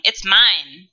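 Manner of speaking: light mock claim "It's mine."; emphatic possessive. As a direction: stress on mine, rising a touch. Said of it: "they are saying".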